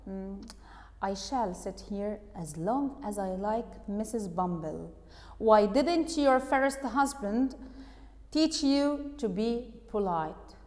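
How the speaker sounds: slow, measured retort of a husband; lightly acted, unhurried comeback; husband's retort. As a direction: answer the scolding slowly, taking your time. Husband's slow reply to scolding wife.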